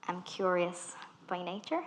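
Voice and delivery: usual speaking voice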